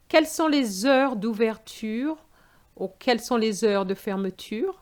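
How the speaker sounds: a learner's careful model question; example question. Shown as a demonstration. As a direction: ask it clearly for the examiner. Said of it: "Is it possible to book online".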